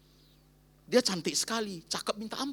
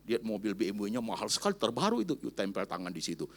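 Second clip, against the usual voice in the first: ordinary talk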